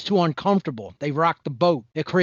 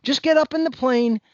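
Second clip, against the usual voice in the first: mock recruiter pitch; 4 semitones higher than usual. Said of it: "If you told me".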